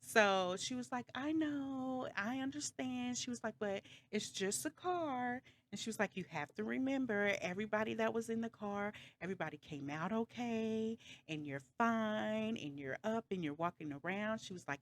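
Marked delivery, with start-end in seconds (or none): 1.1-3.2 high, gentle imitated reassurance; comforting. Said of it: "for her to comfort me". 3.6-5.4 high, slow imitated soothing; comforting. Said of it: "for her to comfort me". 6.2-14.4 raised pitch, gentle imitated reassurance; patiently console, as the retold caller; comforting. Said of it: "for her to comfort me".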